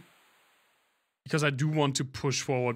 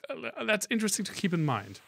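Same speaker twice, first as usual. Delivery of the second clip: talking through a yawn; words stretched by a yawn; 5 semitones higher than usual. Real, not acted. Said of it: "I don't know why I'm yawning".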